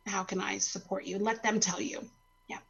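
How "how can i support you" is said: soft sincere support. Shown as a demonstration. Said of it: "it's better to just say".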